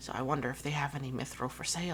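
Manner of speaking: whispered voice. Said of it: "tug on your sleeve to whisper to you".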